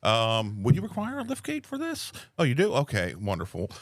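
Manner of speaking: helpful, upbeat phone manner; customer service voice. Shown as a demonstration. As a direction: talk a customer through delivery politely. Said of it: "my phone voice to customers".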